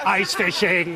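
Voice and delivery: lightly voiced robot butler; a hint of a polite robot; Eskimo robot butler. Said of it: "Eskimo robot butler".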